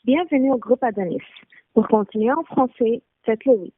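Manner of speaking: switching languages mid sentence. Real, not acted. Bilingual store phone menu.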